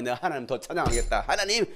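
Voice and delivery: loud, determined vow; defiant resolve. Retold or imitated. Believer vowing praise despite hardship, loud defiant resolve. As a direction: declare it stubbornly, building in force. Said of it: "오기가 발동돼가".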